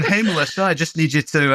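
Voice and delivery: lightly mocking Australian smooth-talker; smooth Antipodean dude. Husband imitating wife's Australian coach overheard at bedtime, smooth Antipodean accent. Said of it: "rich, deep, Antipodean, smooth tone dude".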